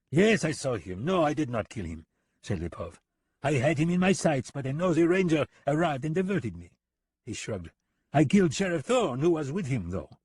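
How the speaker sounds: high, sneering and amused; a smug, taunting killer; mocking foreign gunman. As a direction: talk down to him with a grin. Lipov's character voice.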